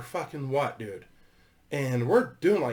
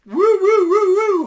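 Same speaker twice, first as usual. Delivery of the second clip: very high, loud siren wail; siren imitation; 13 dB louder than usual. Imitating the highway patrol siren behind them, loud high wail. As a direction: mimic a police siren.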